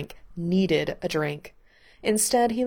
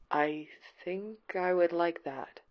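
soft and slow, tentatively hopeful; fragile and hopeful; 6 dB quieter, slower than usual. A narrator's reading. Mikey quietly accepting Gerard's offer to play, fragile and hopeful. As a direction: say it gently, as if afraid to hope. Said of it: "something fragile, hopeful in Mikey's voice".

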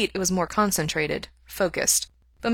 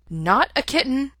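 higher, offended cat voice; a cat insisting it is grown up; cat refusing to be called a kitten; indignant cat; 8 semitones higher than usual. A narrator's reading. Cat Maple speaks.

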